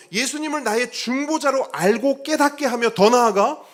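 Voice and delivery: high, loud climactic preaching; preaching at full force. Acted. Preacher urging the congregation at the climax, high and loud. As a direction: drive the point home to the church.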